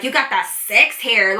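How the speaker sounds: slow, mocking echo of his line; mocking repeat. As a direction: drag it out like you can't believe he said it. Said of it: "Is that not weird".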